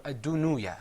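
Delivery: ad-dunuya with an added u after the noon; wrong pronunciation demo. Shown as a demonstration. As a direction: show the error in ad-dunuya. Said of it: "'cause that would be wrong".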